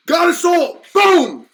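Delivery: high, loud mock victory cry; mock triumph. Host mocking deceivers who hook a soul, triumphant. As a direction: crow it like a fisherman landing a catch.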